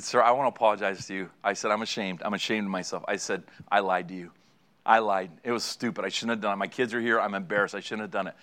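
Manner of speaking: low, soft, shamefaced retelling; contrite apology. Acted. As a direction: act out a humbled confession, subdued and low. Retold ashamed apology to officer.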